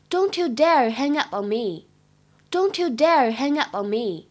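slow menacing "Don't you dare hang up on me"; a slow, threatening demo. Shown as a demonstration. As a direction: warn them, spelling out the threat. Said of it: "非常充满威胁的语气".

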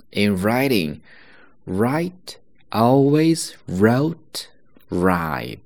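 slow with always wrote right whispered; slow model. Shown as a demonstration. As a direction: drill each r slowly. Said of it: "那么第二个". (慢速示范第二个绕口令)

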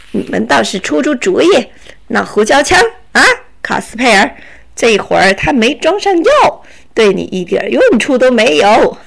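scornful bandit with a laugh at the end; mocking robber. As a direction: rub it in, chuckling. Robber mocks the pepper gun. (强盗带笑嘲讽)

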